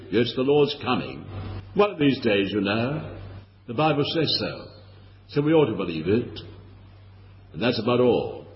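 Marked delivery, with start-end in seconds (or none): 0.1-6.4 lightly mimicking smug churchgoers, a touch lower; sanctimonious sing-song, barely put on; mock pious drawl. Preacher mocking complacent Christians, mildly sanctimonious. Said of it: "piously and sanctimoniously".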